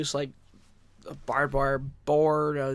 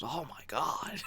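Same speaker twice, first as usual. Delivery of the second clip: impressed colleague; 5 semitones higher, 4 dB louder, slower than usual. Retold or imitated. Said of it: "Latimer ... goes".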